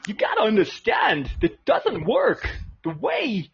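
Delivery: lightly voiced halting Walken; Christopher Walken impression. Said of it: "Christopher Walken as an Amish guy".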